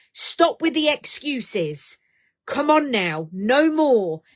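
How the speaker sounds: slow, loud no-nonsense push; stern pep talk. Real, not acted. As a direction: demand she drop the excuses. Host pushing viewer to change.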